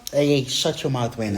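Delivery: sharp, loud telling-off to a noisy dog; scolding the dog. Real, not acted. Scolding her dog mid-story.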